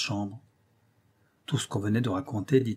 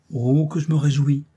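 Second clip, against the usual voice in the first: higher and louder, a mock-gleeful cry; delighted exclamation; 5 semitones higher, 8 dB louder than usual. Young man teasing the frightened girls, delighted exclamation. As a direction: burst out in playful delight. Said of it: "s'écria Dagobert".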